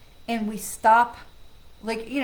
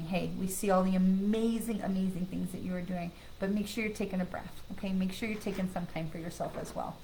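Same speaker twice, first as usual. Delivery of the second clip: gentle message; 3 semitones lower, 5 dB quieter than usual. Retold or imitated. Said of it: "reminder from Spirit that's saying".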